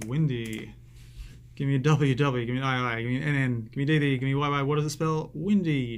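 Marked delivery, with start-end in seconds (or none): 1.6-6.0 mildly shouted cheer chant, louder; cheerleader shout. Shown as a demonstration. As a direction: call out each letter like a cheerleader.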